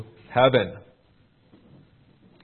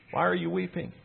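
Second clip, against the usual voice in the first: gentle rebuke; 5 semitones higher, 7 dB quieter than usual. Retold or imitated. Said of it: "a gentle rebuke to Mary".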